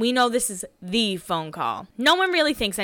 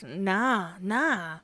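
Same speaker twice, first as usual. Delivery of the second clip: put-on Jason's old voice; 6 dB quieter than usual. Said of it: "his voice where he kinda talked like this".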